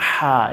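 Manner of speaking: হা with H squeezed from the throat; Arabic pharyngeal H in হা; pressed Arabic H. Shown as a demonstration. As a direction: press the breath through the throat on হা. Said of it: "এরকম উচ্চারণ চাপ দিয়ে করব".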